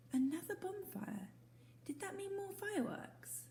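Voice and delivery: hushed, wondering whisper to himself. Acted. Owlet whispering his hope to himself. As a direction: breathe it out secretly.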